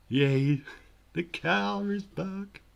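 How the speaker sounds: high, loud, drawn-out celebration; excited cheer. Real, not acted. Streamer celebrating the car being back, high loud cheer.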